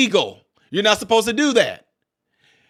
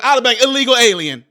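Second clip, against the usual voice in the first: "illegal alien" said loud and firm; punchy illegal alien; 2 semitones higher, 5 dB louder than usual. Shown as a demonstration. Defiant commentator stating illegal alien loud. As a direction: hit "illegal alien" hard, louder. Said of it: "we don't say illegal".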